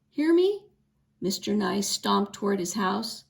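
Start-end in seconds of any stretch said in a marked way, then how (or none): 0.1-0.7 higher, louder yelled question; shouted threat. A narrator's reading. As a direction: bellow it after the running horse. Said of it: "Mister Nye yelled after Penny".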